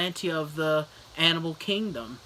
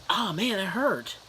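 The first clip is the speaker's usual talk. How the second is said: higher-pitched mock complaint of pain; mock pained dog; 5 semitones higher than usual. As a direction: whine like a bitten cartoon dog. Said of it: "bit him on the shoulder".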